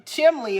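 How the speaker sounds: "Chimney" said as CHIM-lee; dialect pronunciation. Shown as a demonstration. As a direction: put an L into "Chimney". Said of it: "is what I would always say".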